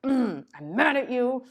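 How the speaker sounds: slow, sulky whisper; whispered grudge. Retold or imitated. Parent still angry at the child, slow sulky whisper. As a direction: hiss out the resentment under your breath. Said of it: "They're like".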